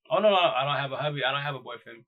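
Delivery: hammed-up quick no no no; retold insistent denial.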